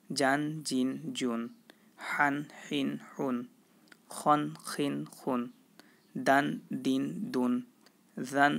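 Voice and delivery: steady, measured recital of the sounds; direct reading demo. Shown as a demonstration. Teacher showing students how to read directly, measured recital. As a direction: read each syllable straight off without spelling. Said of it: "কীভাবে পড়ব দেখুন".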